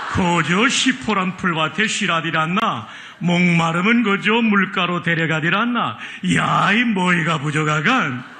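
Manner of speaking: a North Pyongan elder recounting God's care; Pyongan dialect. Acted. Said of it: "평안도 버전입니다". (평안도 사투리로 구수하게)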